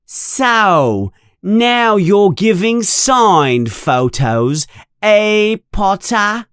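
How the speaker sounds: high, mocking schoolboy bully; Draco Malfoy, loud taunt. A narrator's reading. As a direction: taunt him so the whole yard hears. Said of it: "He is speaking loud enough for everyone".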